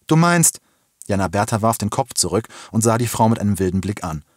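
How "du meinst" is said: high, louder half-finished query; startled question. A narrator's reading. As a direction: ask it pitched up, taken aback. Woman questions the girl's demand. (verblüfft nachgefragt, mit hoher Stimme)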